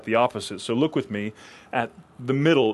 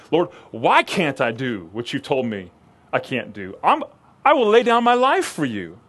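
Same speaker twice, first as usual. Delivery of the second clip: insisting Peter; 4 dB louder than usual. Acted.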